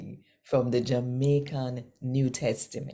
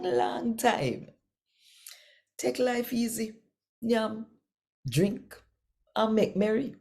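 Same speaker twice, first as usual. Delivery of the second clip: gloating rich man; 8 semitones higher than usual. Acted.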